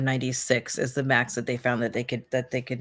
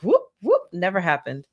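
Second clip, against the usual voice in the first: breezy dismissal; 2 semitones higher, 4 dB louder than usual. Retold or imitated. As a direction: sing out whoop whoop and move on. Brushing off a mark.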